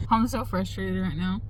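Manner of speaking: frustrated half-laugh; a real exasperated chuckle; laughing in frustration. Real, not acted. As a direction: laugh it off so you don't cry. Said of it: "I'm laughing because if I don't".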